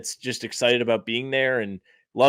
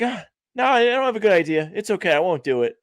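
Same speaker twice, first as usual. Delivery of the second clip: higher, whiny excuse-making voice; mock self-talk; 7 semitones higher, faster than usual. Writer imitating his own excuses, whiny higher voice. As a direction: mimic your own lazy inner voice. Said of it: "And I'm like".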